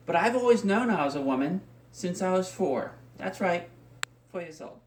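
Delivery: stage delivery with deliberate pauses; theatrical monologue. Acted. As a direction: perform it like an audition piece, measured and projected. Performs audition monologue.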